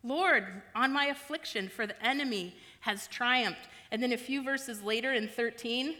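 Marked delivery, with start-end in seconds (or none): 0.0-3.7 lament cry. Acted. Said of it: "She says".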